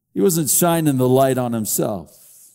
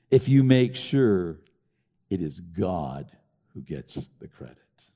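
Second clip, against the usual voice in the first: hushed emphasis; 11 semitones lower, 6 dB quieter than usual. Real, not acted. Preacher driving his twist home to the congregation, hushed. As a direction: drop to a near hush for the key line. Preacher's reworded quote, dropping low.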